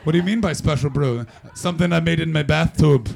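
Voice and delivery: badly faked Scottish accent; botched Scottish accent. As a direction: attempt a Scot and miss. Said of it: "That's not a Scottish accent".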